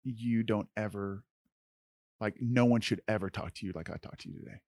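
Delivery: soft, remorseful apology; subdued, emotional apology; tearful apology, retold. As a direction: retell a heartfelt sorry, softly. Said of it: "I start to cry".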